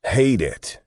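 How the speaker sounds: all but yell it, stopping short of a full shout; near yell. A narrator's reading. God fed up with paperwork, all but yelling. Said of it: "God all but yelled".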